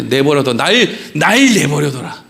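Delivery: half-acted angry God, rising to a shout; a hint of a thundering God; God's voice. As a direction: play God fed up with his people. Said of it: "하나님 뭐라 그래".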